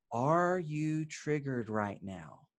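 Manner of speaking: slow, soft and unhurried; gentle question. Shown as a demonstration. Husband asking his triggered wife, slow and gentle. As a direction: ask it gently, no judgement. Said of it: "not saying it in a judgmental or a harsh way".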